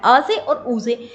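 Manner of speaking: अ से और उ से spelled out slowly; teacher stressing the two sounds; slow and deliberate. Shown as a demonstration. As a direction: lay each sound down slowly for students. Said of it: "ध्यान दीजिएगा".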